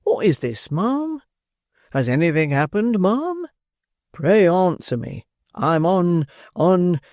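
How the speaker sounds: fussing beadle voice climbing high on each ma'am; flustered official fretting over her; alarmed beadle. Acted. Beadle stooping over the gasping matron in alarm. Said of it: "in his alarm".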